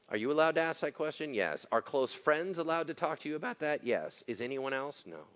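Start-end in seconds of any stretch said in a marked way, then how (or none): none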